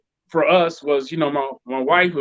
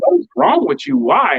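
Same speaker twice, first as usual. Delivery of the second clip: pitched-up incredulous "what is wrong with you"; incredulous wife; 3 semitones higher, 3 dB louder than usual. Retold or imitated. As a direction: play the wife, baffled and exasperated. Wife reacts to grocery buying.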